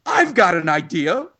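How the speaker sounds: a slow, hammed-up captain's big idea; milk the captain's sudden brainstorm; mock angry captain. Captain finally proposing the gun, mock dramatic. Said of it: "the captain gets angry enough to go".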